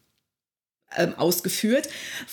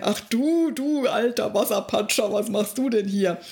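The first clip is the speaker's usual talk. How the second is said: mock sweet princess. Princess quoted, child-friendly version.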